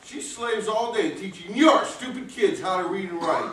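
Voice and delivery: high, loud, furious shouting; furious yell. Acted. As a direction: bellow in outrage at the insult. Angry husband yelling at Welch.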